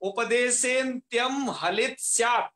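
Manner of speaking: उपदेशेन्त्यम हलित स्यात् spoken at a steady, deliberate pace; measured recitation. Shown as a demonstration. Teacher reading the sutra line to the class, measured. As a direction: read the line out evenly, like a rule to learn. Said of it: "एक पंक्ति लिखी है".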